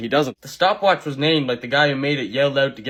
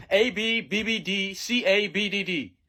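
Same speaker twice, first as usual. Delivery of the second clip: slow, higher answer dictation; cheat mode teacher; 5 semitones higher, slower than usual. Acted. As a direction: rattle off answers slowly. Teacher switches into another persona.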